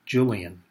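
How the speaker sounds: Julian said with a Y sound, YOO-lee-an, as the German spelling gives; German-style Yulian. Shown as a demonstration. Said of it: "pronounced Julian".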